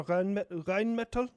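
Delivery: Rheinmetall said slowly in a put-on accent; stumbling over Rheinmetall in the accent. Mocking a neighbour while stumbling over Rheinmetall in the accent. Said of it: "so hard to say in this accent".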